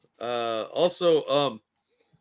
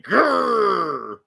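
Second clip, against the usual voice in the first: mock growl; 7 semitones higher, 4 dB louder than usual. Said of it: "She went in there and, like".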